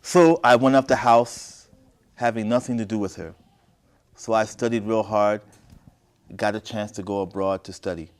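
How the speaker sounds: deliberate, projected story reading; story narration. A narrator's reading. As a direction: read each phrase out clearly, pausing between. Reads the story aloud.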